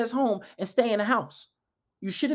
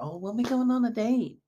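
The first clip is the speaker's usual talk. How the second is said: higher-pitched, put-on needy questions; mock clueless asking; 4 semitones higher than usual. Man asking her instead of leading, mocked in a raised voice. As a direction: mimic a man who waits to be led. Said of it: "Don't be asking her".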